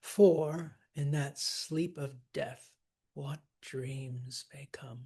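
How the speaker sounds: slow verse, FOR leaned on first; stress on FOR. Shown as a demonstration. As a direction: open strong on "For", then slowly soften to "come". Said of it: "I would trochee that to for".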